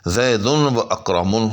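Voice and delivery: زیدن و اکرمن said slowly, each word spelled out with a rise on زیدن; careful classroom reading of زیدن و اکرمن; slow Arabic demo of زیدن و اکرمن, zaidun wa akramun; Arabic example. Shown as a demonstration. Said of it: "جس طرح سے ہم کہیں".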